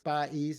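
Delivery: "País" said pa-EES, vowels apart; two separate syllables. Shown as a demonstration. Teacher demonstrating the accent's effect, "País" in two syllables. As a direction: stress the i of "País", split from the a. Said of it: "that's gonna be two separate syllables".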